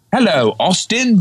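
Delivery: lightly voiced boss greeting; Austin Powers' boss. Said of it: "your impressions are so good".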